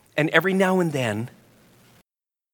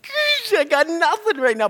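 much higher, exasperated gosh; frustrated aside. Retold or imitated. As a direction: sigh it out, left out of the joke. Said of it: "I'm just like".

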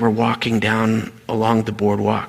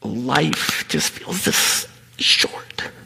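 slow hush; much slower than usual. Real, not acted. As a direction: let each word sink slowly. Sermon climax, slowed hush.

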